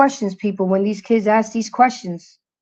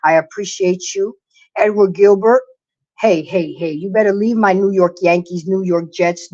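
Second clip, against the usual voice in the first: ordinary delivery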